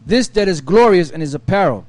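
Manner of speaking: measured Bible reading voice; steady reading of old scripture. Acted. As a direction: read the verses like a lector. Reads Isaiah aloud.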